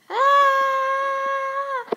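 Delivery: high, slow frightened wail; scared. Acted. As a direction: cry out high in terror. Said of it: "I'm scared".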